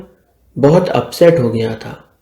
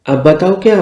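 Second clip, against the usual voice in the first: higher, indignant throwing back of "अब बताओ"; indignant echo; 5 semitones higher than usual. Acted. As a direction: echo "अब बताओ क्या" as a piqued question.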